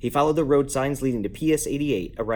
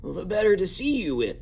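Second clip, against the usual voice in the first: lightly voiced wolf in disguise, higher; a touch of rasp, pitched up; raspy voice; 8 semitones higher than usual. A narrator's reading. Wolf disguised in bed answers Bundy, lightly raspy. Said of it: "said the raspy voice".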